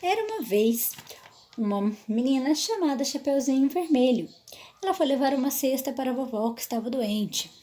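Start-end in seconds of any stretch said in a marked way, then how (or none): 0.0-4.3 storytelling voice. Shown as a demonstration. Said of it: "Primeiro erro, explicar".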